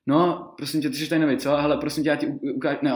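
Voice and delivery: lightly voiced bossy shop lady; imitating the coworker. Coworker mistakes him for a new hire, lightly mocking voice. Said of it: "a teďka na mě uprostřed scény úplně".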